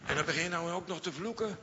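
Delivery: quick, high mock reproach; tut-tut at Peter swearing; accusing servant girl.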